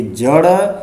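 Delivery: जड़ slowly, with flicked ṛ; careful flap model. Shown as a demonstration. Teacher recapping the list, जड़ slowly with flapped ṛ. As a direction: say जड़ as jaṛ, rising at the end. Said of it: "इसे पढ़ेंगे".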